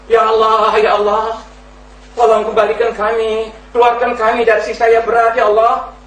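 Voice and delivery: high, wailing plea to be let out; screaming for mercy. Acted. The damned in hell begging release, high anguished wail. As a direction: cry out to be taken back from the fire. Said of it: "dia jerit-jerit".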